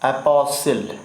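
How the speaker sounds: एपोसिल said "e-po-sil", T left silent; silent T, split up. Shown as a demonstration. Teacher models apostle for learners, split up with silent T. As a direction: say एपोसिल in separate parts with no T. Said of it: "लेकिन पढ़ेंगे आप एपोसिल, अलग-अलग कर ले".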